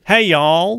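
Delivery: a hint of an American accent. Shown as a demonstration. Co-host reluctantly attempting an accent, a slight American one. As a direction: try a token American twang. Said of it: "just a bit of a American".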